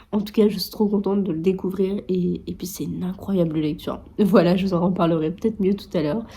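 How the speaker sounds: groggy morning voice with vocal fry. Real, not acted. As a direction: talk through a croaky just-woke-up fry. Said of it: "j'ai ma voix du matin, c'est horrible".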